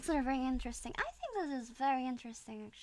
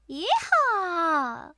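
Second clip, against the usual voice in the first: mock cowboy yell; 6 semitones higher, 10 dB louder than usual. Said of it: "cowboy cheer after accent practice".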